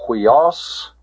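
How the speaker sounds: "huios" said alone as a model; pronunciation demo. Shown as a demonstration. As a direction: model "huios" clearly, H sound first. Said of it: "The pronunciation of this".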